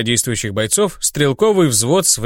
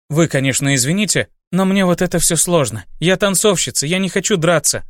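put-on higher, hesitant young woman; timid girl voice; 4 semitones higher than usual. Centaur dancer Olga speaking.

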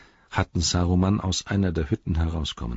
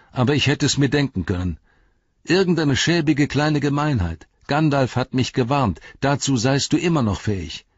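raised, high, loud scolding; angry rebuke; 8 semitones higher, 5 dB louder than usual. Acted. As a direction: confront him with open contempt. Frodo rebukes Saruman.

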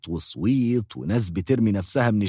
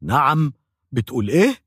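mild mock shout. Patient reacts to the dentist, in a mild mock shout. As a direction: cry out in disbelief at إيه. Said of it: "فصرخت".

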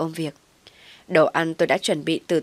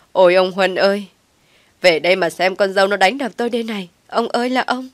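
wailing; 2 semitones higher, 6 dB louder than usual. Acted. Old mother-in-law wails to her husband about the beating, loud lament. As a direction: wail out the grievance, beating her chest. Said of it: "sau đó lại gào lên".

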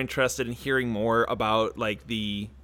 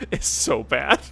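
swallowed wrong way, choking; choking on water; 4 dB louder than usual. Real, not acted. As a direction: talk through a choke on water. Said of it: "I was choking".

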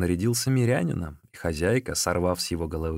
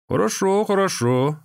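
high, bright-eyed double yes; eager high agreement; 11 semitones higher, 4 dB louder than usual. Acted. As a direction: chirp it up eagerly.

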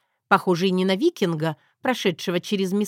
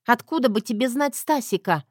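challenging Zoya; 5 semitones higher than usual. Acted.

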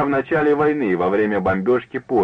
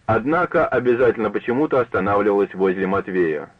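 usual speaking voice

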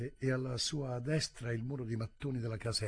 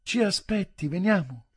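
loud, high-pitched call; 9 semitones higher, 12 dB louder than usual. A narrator's reading. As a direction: shout for someone to wait. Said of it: "gridò".

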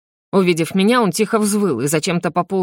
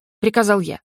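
plain reading voice

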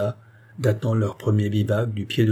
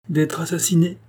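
finishing the sentence; 7 semitones higher than usual. A narrator's reading. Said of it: "dit la reine en achevant la phrase".

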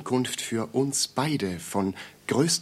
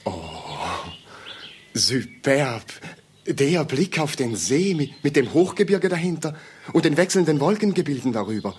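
enthused admiration; 3 semitones higher, 3 dB louder than usual. Acted. Visitor admiring view.

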